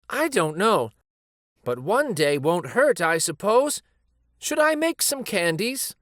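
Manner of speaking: lightly voiced old wife, rising at the end; a hint of a kind grandma; grandma Ba-chan. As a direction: give in and offer candies. Ba-chan relents.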